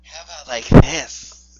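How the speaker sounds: low put-on voice; put-on silly voice. Shown as a demonstration. Reader auditions another voice for co-host, low and silly. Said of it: "No, that's worse".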